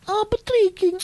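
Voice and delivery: very high mock-crying wail; pleading girl. Comic mimics the girl begging Patrice, high mock wail.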